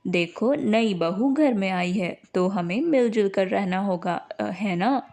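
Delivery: a patient husband coaxing his wife; husband Ramesh. Acted. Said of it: "उसके पति रमेश ने कहा".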